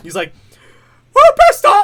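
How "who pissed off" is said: very high, loud, shrill shout. Retelling a cartoon scene where the character gets angry: Mickey impression. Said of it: "started doing my Mickey, like, impression".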